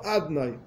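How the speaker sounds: "Adnai" said altered on purpose, without the middle O; deliberate mispronunciation. Shown as a demonstration. Teacher avoiding the proper pronunciation of God's name, "Adnai" deliberately altered. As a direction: say "Adnai" in two syllables, deliberately not as Adonai. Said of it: "No lo digo como corresponde".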